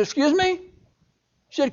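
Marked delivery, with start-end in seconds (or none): 0.0-0.6 high, soft startled question; can't believe what mom just said; startled disbelief. Retold or imitated. Boy hears mother tell him to kick the wall, stunned disbelief.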